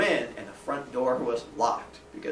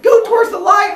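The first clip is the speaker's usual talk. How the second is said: high loud mock spooky call; 13 dB louder than usual. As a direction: fourth grader calling into the crawl space, mock spooky call. Fourth grader calling in.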